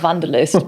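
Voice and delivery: "Vanderlust" with a V for the W; German-style pronunciation. Shown as a demonstration. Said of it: "feel like a bit of a knob saying".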